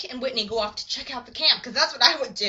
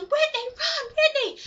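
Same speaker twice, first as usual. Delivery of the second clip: high-pitched cry without much volume; retold yell, strained up high; mock yelling; 13 semitones higher, slower than usual. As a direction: call out a desperate warning, acted. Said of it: "He's yelling".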